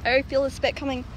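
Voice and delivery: slight lisp from retainers; extra saliva while talking; wearing new retainers. Real, not acted. Seen 0: Got retainers at -4.6, removes them from +23; teeth look coated.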